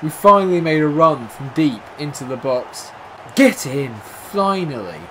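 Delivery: loud, high delighted praise; excited relief. Real, not acted. Praising the goal after a frustrating game, excited. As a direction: savour the long-awaited goal.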